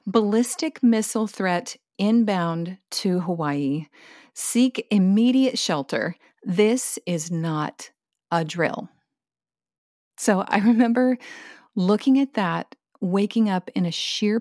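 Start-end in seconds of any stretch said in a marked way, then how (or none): 0.1-8.9 slow, deliberate reading of an alert. Retold or imitated. Reading a missile alert text aloud, slow and grave. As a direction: weigh each word of the warning. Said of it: "and the alert read".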